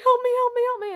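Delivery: high, loud repeated plea; retold cry for help. Banging on someone's door at night, loud frantic cry. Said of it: "banged on someone's door".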